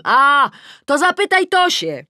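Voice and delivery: high, loud, knowing call; understanding shout. A narrator's reading. Neighbour Ula advising from her window, shouting. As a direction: call out as if it all makes sense. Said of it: "Ula krzyczy ze zrozumieniem".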